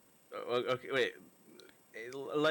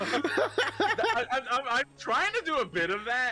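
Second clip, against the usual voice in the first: Jonah Jameson voice; 7 semitones higher, slower than usual. Acted. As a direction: bark it like a gruff editor. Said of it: "Jonah Jameson".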